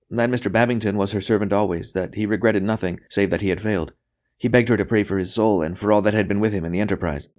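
a captive talking on, pitched a little high; voluble captive priest. Acted. Priest gives his message to the interrogator, voluble.

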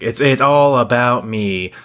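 mocking Lana's promo, name rising then falling. Mocking Lana's self-involved promo, lightly imitated. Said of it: "she keeps saying".

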